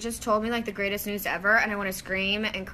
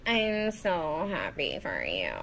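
Jennifer Coolidge impression; 4 semitones lower, slower than usual. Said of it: "Jennifer Coolidge in a Cinderella story, like, after she gets Botox".

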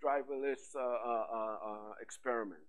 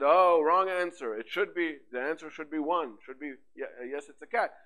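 mock trainer correcting; 6 dB louder than usual. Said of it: "So we said".

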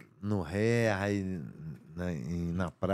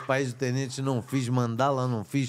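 emphatic denial; 5 semitones higher, 5 dB louder than usual. Real, not acted. Guest denying each listed film.

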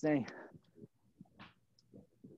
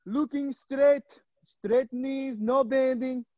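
higher put-on coaching voice; affected, raised-pitch exercise cues; 4 semitones higher, slower than usual. Coach cueing straight knees to the class, put-on voice. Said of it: "But I talk like this all the time".

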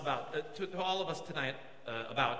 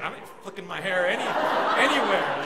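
lightly mocked girls; 7 dB louder than usual. Teasing the congregation's girls about hair flicks, lightly mocking. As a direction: playfully imitate the girls, stretching the last word. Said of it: "G C C girls gonna be".

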